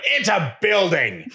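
high, slow, incredulous It's a building; exasperated retort. Retold or imitated. Mom fires back at the attendant, high and incredulous. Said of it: "I'm like".

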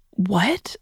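stunned, breathless whisper of disbelief; whispered what. Retold or imitated. Confused over the phone with her girlfriend, a whispered what. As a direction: barely voice it, bewildered.

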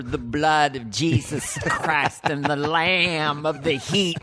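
slow preaching rant; Bible thumper. Retold or imitated. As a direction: thunder it like a preacher. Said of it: "a total Bible thumper".

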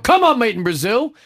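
shouted, high urging on a horse; excited cheering. Real, not acted.

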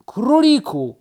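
high loud call down the tree; shouting down. Acted. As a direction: call down to the rabbit below. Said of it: "krzyknęła Misia w dół". (Misia woła w dół wysoko i głośno)

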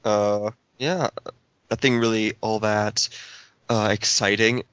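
flat, just-woke-up drone; monotone voice. Real, not acted. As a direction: drone it out like a half-asleep zombie. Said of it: "sorry for my dead monotone voice".

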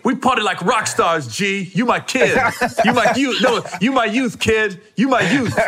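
imitated comedian gushing over a friend; effusive mock affection in another comic's voice; Tracy Morgan. Comedian claiming friend as his kid, effusive imitation. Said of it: "He goes".

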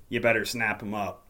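usual speaking voice

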